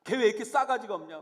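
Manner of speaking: loud mock outrage of a loyal friend; indignant badmouthing. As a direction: take offence on a friend's behalf. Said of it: "나보다 더 욕해주잖아요".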